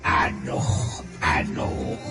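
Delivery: low, soft "aduh" groans; dismayed groan. Acted. Villain groans in thought. (ngahégak aduh, sora handap)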